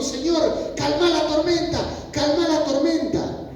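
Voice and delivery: high, insistent cry to the Lord; acted plea. Acted desperate plea to Jesus. (súplica insistente en voz aguda)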